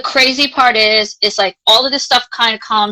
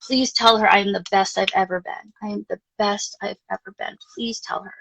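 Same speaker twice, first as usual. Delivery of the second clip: fading plea; 6 dB quieter than usual. Retold or imitated. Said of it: "he's like".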